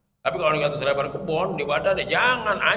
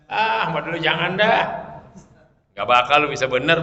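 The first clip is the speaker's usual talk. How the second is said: harsh ustaz; 5 dB louder than usual. Retold or imitated. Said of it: "begitu ngomongnya".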